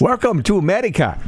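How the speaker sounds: put-on made-up vaguely Asian accent; clumsy invented Asian accent; switching accents clumsily. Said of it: "What accent was that?".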